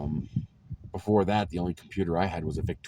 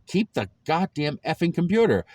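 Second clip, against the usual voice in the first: higher, louder exasperated dad; retold angry dad; 11 semitones higher, 7 dB louder than usual. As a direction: bark it like a fed-up father. Dad insisting in retold argument.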